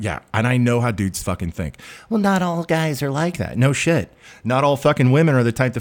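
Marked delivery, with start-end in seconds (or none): 2.1-3.6 higher-pitched mimicking of an objection; mock objector. Ranting man mimics someone defending guys, mock higher voice. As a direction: parrot the objector in a raised voice.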